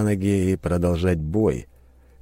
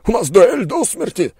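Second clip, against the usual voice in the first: very high, loud furious disbelief; raging outburst; 7 dB louder than usual. A narrator's reading. Merchant raging at the wounded duelist. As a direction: spit the word back in fury. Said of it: "заорал он".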